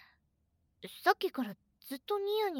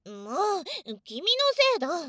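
pouty blame; 7 dB louder than usual. Real, not acted. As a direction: blame him with a pout. Pouting blame.

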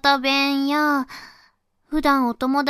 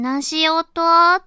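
put-on slow, gentle and a bit louder, coaxing a little kid; talking to a small child; 2 semitones higher, 5 dB louder than usual. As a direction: sweetly ask a small child in Hakata dialect. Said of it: "地元で小さい子に喋る、".

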